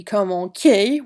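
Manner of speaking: commencer with a hard K sound, the mistake; wrong pronunciation. Shown as a demonstration. Teacher showing students the wrong hard C in commencer. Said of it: "which is wrong".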